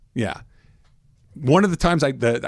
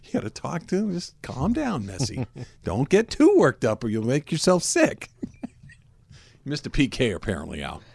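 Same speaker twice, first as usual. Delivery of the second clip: hushed calming coach; 5 dB quieter than usual. Acted. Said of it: "I picture the coach is like".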